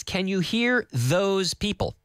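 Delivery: slow, clear teacher model; slow model sentence. Shown as a demonstration. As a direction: say it slowly for learners to repeat. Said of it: "our beginner sentence".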